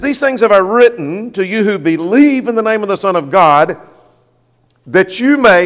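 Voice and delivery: preacher quoting scripture with weight; scripture reading. Acted. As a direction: read it out firmly to a congregation. Reads scripture aloud to congregation.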